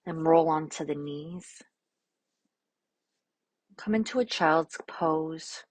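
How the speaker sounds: calm, unhurried instructions with long silences; guided meditation. Real, not acted. Yoga teacher offering an affirmation and easing class into poses, calm guided meditation.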